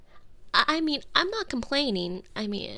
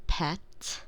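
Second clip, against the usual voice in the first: whisper; 8 semitones lower than usual. Acted. Whispered pet name.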